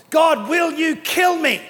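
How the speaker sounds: despairing plea. Retold or imitated.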